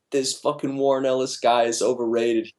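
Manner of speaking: lightly voiced, teasing parrot of the rant; mocking imitation. Jim teasing his coworker by parroting him, mock rant. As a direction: mimic him back, ribbing. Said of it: "He's like".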